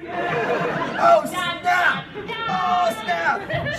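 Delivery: very high, laughing oh snap; squealing oh snap in delight; excited whoop. Real, not acted. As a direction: cheer it like a hype moment. Hyped reaction to the twist.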